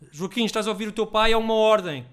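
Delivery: stern command. Retold or imitated. Father giving his toddler son a firm order, loud and stern. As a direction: lay down the law to the toddler.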